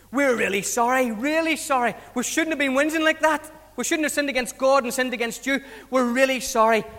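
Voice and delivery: lightly hammed-up contrition; acted apology. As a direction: apologise like a chastened crowd. People apologise to Moses.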